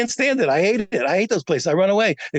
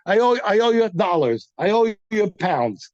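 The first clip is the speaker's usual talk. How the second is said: reading the loan paper. Shown as a demonstration. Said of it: "it says".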